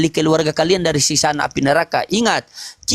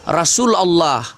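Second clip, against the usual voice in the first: recited shahada; slower than usual. Shown as a demonstration. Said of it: "Kalau bersyahadat itu".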